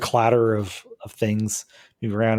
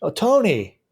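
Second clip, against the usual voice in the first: male voice; 6 semitones higher than usual. Acted. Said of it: "a male voice says".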